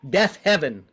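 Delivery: defiant cry at the gods. Shown as a demonstration. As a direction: hurl it at the heavens. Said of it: "let's shake our hands at the gods".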